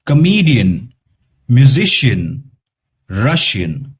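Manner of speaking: "पॉलिटिशियन" with a weak, unstressed final a; schwa ending. Shown as a demonstration. Teacher modeling schwa endings for students. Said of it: "और उसमें श्वा sound निकलेगा".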